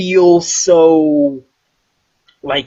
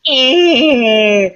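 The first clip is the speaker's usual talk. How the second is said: put-on high, dopey eh like a lost little kid; dazed child eh; 9 semitones higher, 3 dB louder than usual. Mocking the kid standing in the explosions, high dopey eh. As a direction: blank high child grunt.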